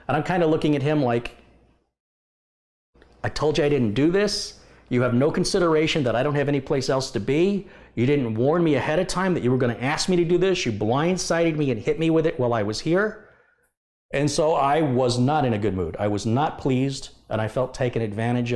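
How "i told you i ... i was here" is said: the customer he is fed up with, told off in his head; mock angry retort.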